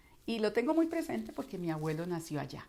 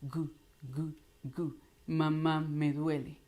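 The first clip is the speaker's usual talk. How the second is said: slow, lightly voiced baby babble; a hint of a little child's voice; forward-placed small child; 3 semitones lower, slower than usual. Shown as a demonstration. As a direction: round the lips like a cooing toddler. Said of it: "suenan muy lindo adelante, suenan muy armónicos".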